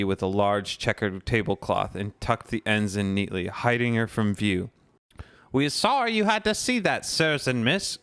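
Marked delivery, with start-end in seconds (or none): 5.5-8.0 higher, quick, apologetic elf squeak; a flustered little elf apologising; house-elf apologising to the visitors, quick squeak. Acted. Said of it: "squeaked a nearby house elf".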